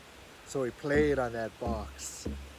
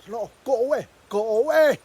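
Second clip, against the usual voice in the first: higher, louder shooing off; spirits refusing; 7 semitones higher, 7 dB louder than usual. Acted. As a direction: chase Raven away.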